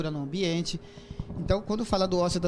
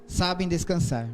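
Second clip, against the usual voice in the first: haiku reading; slower than usual. Shown as a demonstration. Reads haiku aloud.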